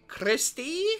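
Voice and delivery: put-on calling a kid in another room; high worried call; Joseph calling.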